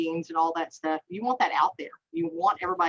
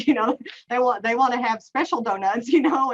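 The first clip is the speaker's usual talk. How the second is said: laughing; 4 semitones higher, 4 dB louder than usual. Real, not acted. Laughing over donut analogy.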